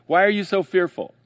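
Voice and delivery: challenging question. Retold or imitated. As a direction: throw the question at them. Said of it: "So when he says".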